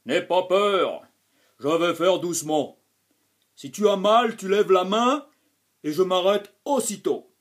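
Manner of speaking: a big man trying to sound gentle; calm reassuring. A narrator's reading. Dentist calming the frightened boy, reassuring voice. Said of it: "d'une voix calme qui se veut rassurante".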